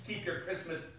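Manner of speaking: angry boss's shout; threatening. Acted. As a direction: bellow a threat at the clerk. Scrooge threatens his clerk.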